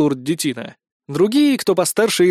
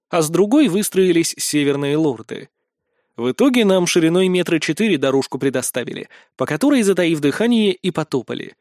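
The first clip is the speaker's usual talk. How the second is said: ordinary delivery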